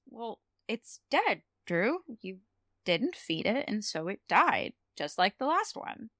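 gently breaking the news, imitated; gentle. Spike telling Drusilla her bird is dead, gently. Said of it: "actually very gently says".

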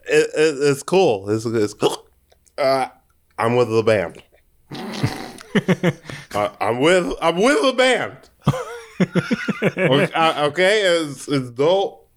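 put-on drunk accent. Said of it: "Drunk is the accent card".

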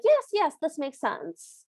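mock agreement, high then trailing off slowly; agreeing stepsisters. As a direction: imitate stepsisters nodding along. Acting nodding stepsisters.

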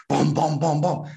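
punchy "bom" for each blow; imitated punches. Retelling the stepfather's beating, imitated punches. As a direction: thud out a run of blows.

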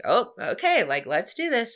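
retold "sure, let's go for it"; lightly acted willingness; game agreement. Acted agreeable reply in retold date.

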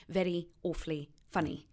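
heightened RP adverb endings on "very", "awfully", "funny"; shwee endings. Shown as a demonstration. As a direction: clip the final ee of "very", "awfully", "funny" in heightened RP style. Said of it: "the shwee sound at the end of adverbs".

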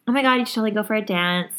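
high, fast, bubbly little voice; sweet hyped-up client voice; customer service voice. Retold or imitated. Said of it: "little, like, voice".

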